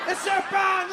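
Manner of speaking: put-on Le serpent fired off high and shouted in a French accent; fast French-accented panic; quick French cry. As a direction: blurt "Le serpent" in alarm. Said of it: "The French guy was my favorite".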